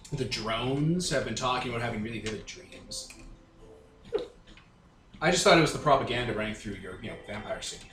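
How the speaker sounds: ordinary delivery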